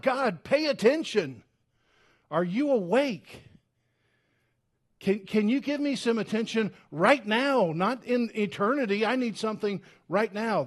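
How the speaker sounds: pleading for attention now; mock scream. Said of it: "I scream out".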